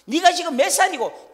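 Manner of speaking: high, loud furious scolding; scolding parent. Retold or imitated. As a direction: yell at the child who wet himself. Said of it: "엄마 아버지는 뭐란가 하면".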